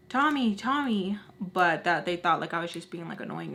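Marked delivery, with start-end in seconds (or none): 0.1-1.2 higher sing-out of the name, only slightly louder; mock yell, repeating the name; retold screaming. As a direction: imitate calling out, held back. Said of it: "they kept screaming".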